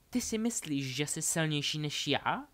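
high-pitched mocking question; ironic. Delphi challenges Harry's strength, ironic. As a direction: ask it with lilting irony. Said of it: "zeptala se ho Delphi ironicky".

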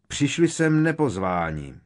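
high, loud accusation; calling out. A narrator's reading. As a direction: cry it out to the crowd. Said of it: "zvolal vousatý kentaur".

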